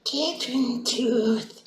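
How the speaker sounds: deep, slow, greedy croak; low creature voice. Acted. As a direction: croak it out like a goblin.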